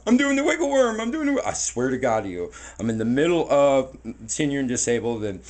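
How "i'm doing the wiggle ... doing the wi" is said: high, louder, sing-song reassuring voice; playful kid talk. Retold or imitated. Man on the floor reassuring a frightened child, high playful voice. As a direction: pitch it up to make a scared kid laugh. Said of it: "So I'm like".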